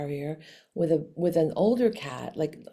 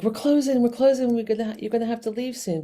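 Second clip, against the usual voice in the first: hurried warning; 4 semitones higher, 3 dB louder, faster than usual. Retold or imitated. Retold hurried closing warning.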